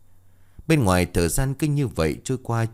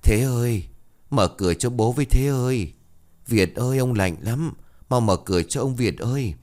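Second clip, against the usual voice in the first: calling out; 4 semitones higher than usual. Acted. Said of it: "lên tiếng gọi".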